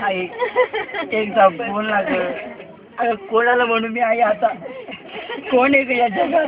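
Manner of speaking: grieving cry. Acted. Son's final grieving cry.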